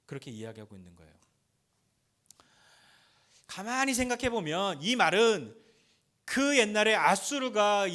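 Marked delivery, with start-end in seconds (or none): none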